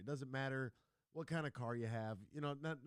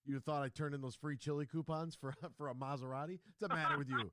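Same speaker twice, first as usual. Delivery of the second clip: mock indignant rant; 2 semitones higher than usual. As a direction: play the offended friend, building. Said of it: "And I was like".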